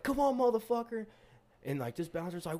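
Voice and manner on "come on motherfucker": retold taunt. Taunting the guy in the fight.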